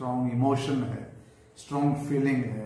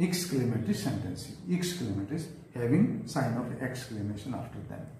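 slow dictation; much slower than usual. Shown as a demonstration. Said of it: "teacher dictating definition".

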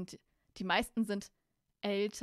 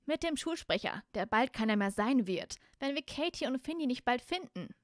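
put-on raised-pitch, insistent girl's voice; impatient Hermine; 4 semitones higher, 4 dB louder, slower than usual. Hermine breaks up the boys' quarrel, high and impatient. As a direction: cut in with impatient firmness. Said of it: "und meinte ungeduldig".

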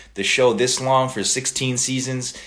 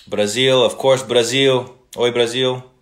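excited greeting; 3 semitones higher, 5 dB louder than usual. Real, not acted. Greeting Brazilian fans warmly.

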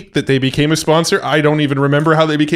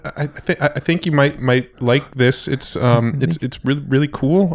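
timid announcer. Pretend. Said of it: "That sounds like your timid voice".

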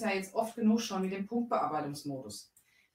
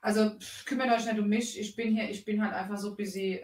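mock diva; 3 semitones higher, 5 dB louder than usual. Mock diva busy act.

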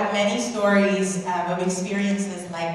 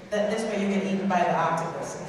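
laughing; 3 dB quieter, faster than usual. Real, not acted. Joking aside while guiding guest.

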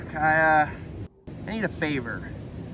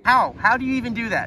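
loud disbelief; 4 semitones higher, 7 dB louder than usual. Real, not acted.

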